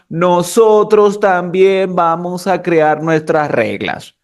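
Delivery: slow, drawn-out huffy announcement; mock annoyed declaration. Annoyed verbs announce their own rules, mock-huffy declaration. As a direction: play miffed, stretching the words out. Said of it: "se molestaron y dijeron".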